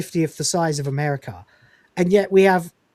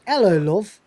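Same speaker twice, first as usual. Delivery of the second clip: Northern hello; 3 semitones higher than usual. Retold or imitated. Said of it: "very British".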